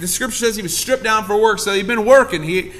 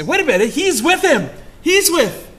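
accusing cry; 6 semitones higher than usual. Acted. Accusers in courtyard.

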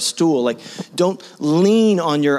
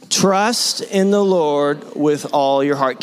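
slow, leading the congregation; call-and-response scripture line; slow unison recitation; much slower than usual. Shown as a demonstration. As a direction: say it slowly with everyone. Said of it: "One, two".

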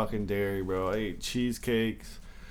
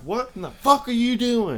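higher, loud incredulous buddy; loud, high mock-outraged friend; buddy's shocked question; 10 semitones higher, 7 dB louder than usual. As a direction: play the friend's alarmed disbelief, pitched up. Buddy's retold shocked reaction.

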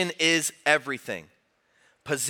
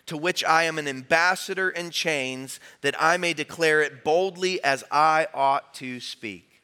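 many voices in unison. Real, not acted. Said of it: "let's lift our voice and hear the word of the Lord together".

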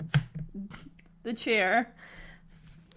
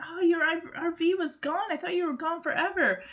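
lightly acted, higher-pitched overjoyed surprise; mild retold excitement; 5 semitones higher, 3 dB quieter, faster than usual. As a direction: retell her relief with a touch of excitement. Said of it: "so excited and overjoyed".

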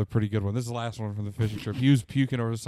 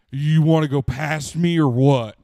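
laughing retold question; 4 semitones higher, 10 dB louder, slower than usual. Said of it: "I was just like".

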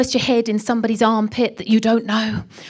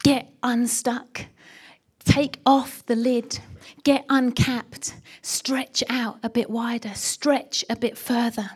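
voice of God; slower than usual. Acted. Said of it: "But God is saying".

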